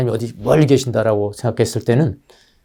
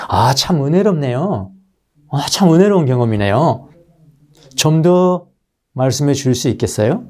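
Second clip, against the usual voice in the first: encouraging marvel; 3 semitones higher than usual. Shown as a demonstration. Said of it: "이렇게 아주 격려를 하는 거예요".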